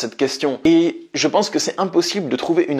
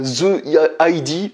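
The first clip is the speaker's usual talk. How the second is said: "the I D" spelled out as English letters, English accent; slower than usual. Shown as a demonstration. He apologises for his English accent, slow English letters. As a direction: say "the I D" like an English speaker, slowly. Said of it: "pour mon accent anglais".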